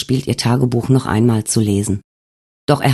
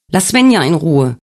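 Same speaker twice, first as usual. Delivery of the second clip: higher, mocking demand; taunting ghost; 3 semitones higher than usual. Wolfgang taunts Alex in his dream, higher and mocking. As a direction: claim her with cold triumph.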